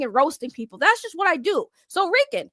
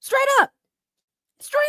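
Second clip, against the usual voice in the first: goofy voice; 8 semitones higher than usual. Shown as a demonstration. Repeated in a put-on voice.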